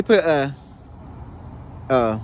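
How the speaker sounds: talking with lip stretched; showing teeth while speaking; finger pulling lip aside. Real, not acted. Seen 1: Finger hooks lower lip to show braces while talking, 0.6–2.8s.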